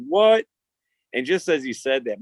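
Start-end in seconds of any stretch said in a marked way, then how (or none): 0.1-0.5 high, louder shocked what; shocked kid. Retold or imitated. Boys hearing a stranger's demand, shocked. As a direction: yelp it in disbelief.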